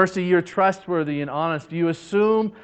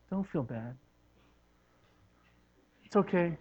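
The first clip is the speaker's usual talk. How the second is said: gentle comforting. Acted. Merciful person comforting a victim.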